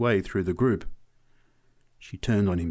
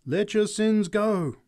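slow, high, loud exhortation; drawn-out revivalist call; preacher's cry; 11 semitones higher, 6 dB louder, slower than usual. A narrator's reading. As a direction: cry it out slowly to the crowd. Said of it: "she cried".

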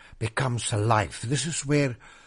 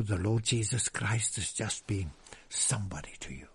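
whisper; 4 semitones lower, 7 dB quieter than usual. Real, not acted. Preacher whispering to the congregation in a hushed aside. Preacher drops voice mid-sermon.

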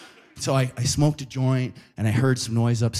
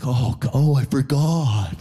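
sheepish; slower than usual. Retold or imitated. Sheepish realization.

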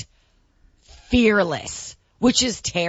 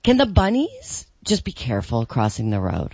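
princess voice; 5 semitones lower than usual. Acted. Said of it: "put on my little princess voice".

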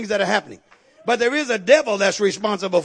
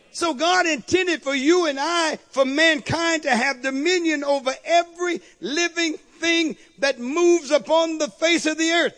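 normal talking voice

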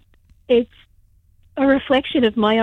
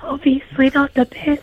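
hoarse, strained voice with laryngitis; 3 semitones higher than usual. Real, not acted. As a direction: rasp through a sore throat. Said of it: "only people with laryngitis that can call".

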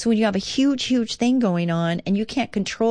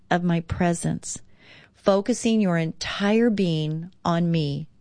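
devotional reading. Acted. Reads Jesus' words devotionally.

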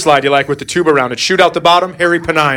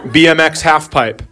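reading aloud; slower than usual. Retold or imitated. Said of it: "read off the browser history".

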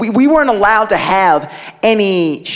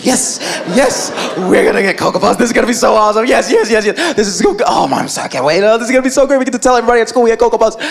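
giddy, laughing chant; bouncing with glee; excited kids; much faster than usual. Retold or imitated. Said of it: "skipping around".

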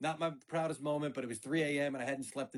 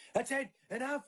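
higher, firm stop-it call; stern dad; 9 semitones higher than usual. Retold or imitated. Dad cutting off the kids' fight, firm. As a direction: put an end to the yelling. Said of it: "I come in and I'm like".

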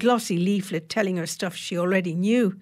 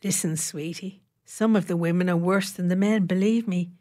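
grim confiding. Acted. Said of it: "said grimly".

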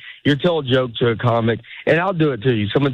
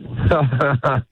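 fake laugh. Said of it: "let me hear your fake laugh".

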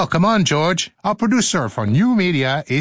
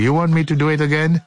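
quick, teasing question; fast; much faster than usual. Real, not acted. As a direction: rattle it off playfully. Repeated playful quick request.

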